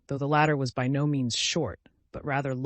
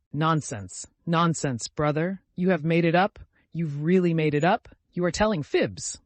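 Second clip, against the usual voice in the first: raised, louder disbelief, questions turning upward; incredulous cry; 4 semitones higher, 6 dB louder than usual. A narrator's reading. Friend doubting Vasya's engagement news, crying out incredulously. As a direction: cry out as if you can't believe it. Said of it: "cried Arkady Ivanovich".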